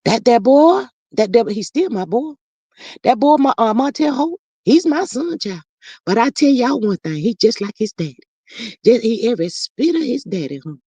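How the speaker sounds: a light, lightly voiced Marlene, the boy's mother. Reading viewer comments as Marlene, lightly voiced mother. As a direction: speak as Marlene defending her son, barely shifted. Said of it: "Since you want Marlene up in here".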